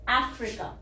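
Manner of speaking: 'अफ्रीका' as AF-ri-ka, short 'ri'; correct pronunciation. Shown as a demonstration. Teacher puts the sounds together for learners, careful 'अफ्रीका'. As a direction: open first vowel, quick middle in 'अफ्रीका'. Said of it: "आई की छोटी ई है".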